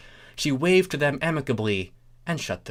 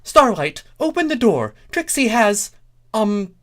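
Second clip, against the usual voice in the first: high, loud, boastful pony voice; Trixie character voice; 12 semitones higher, 7 dB louder than usual. Acted. Trixie demanding entry at Starlight's door, loud and high. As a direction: call through the door, high and brash.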